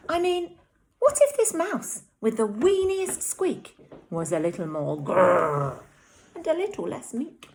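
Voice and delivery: high squeaky mouse musing; lightly voiced little mouse. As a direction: think aloud as a tiny hopeful mouse. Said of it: "he said".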